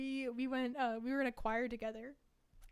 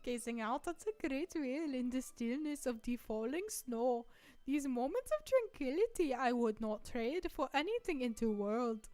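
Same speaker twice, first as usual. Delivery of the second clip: put-on Hungarian accent reading. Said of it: "Hungarian accent".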